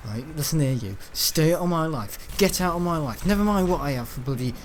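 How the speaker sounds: imitated teacher's firm dismissal; stern without shouting. Teacher sending out a kid who asked about lunch, stern imitation. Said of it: "he doesn't shout with them".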